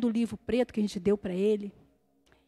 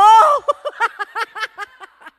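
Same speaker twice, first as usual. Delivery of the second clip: laugh; 10 semitones higher, 14 dB louder than usual. Real, not acted. Laughing at own retelling.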